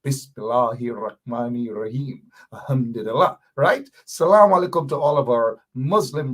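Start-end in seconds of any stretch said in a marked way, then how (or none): 0.0-2.3 measured, practised Arabic pronunciation of "Bismillahir Rahmanir Rahim"; linguist-style Arabic. Shown as a demonstration. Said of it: "makes me sound like a linguist".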